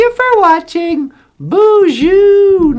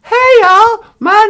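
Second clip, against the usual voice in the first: excited; 6 semitones higher, 8 dB louder, slower than usual. Pretend. Show host opening greeting.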